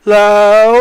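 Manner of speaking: slow, low feminine resonance; going low. Shown as a demonstration. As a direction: stretch "low" out at the bottom of the voice. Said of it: "it's really hard to go low".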